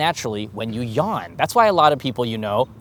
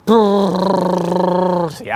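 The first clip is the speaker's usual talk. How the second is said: failed lip trill sound; 5 semitones higher, 5 dB louder than usual. Shown as a demonstration. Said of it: "that was a bad one".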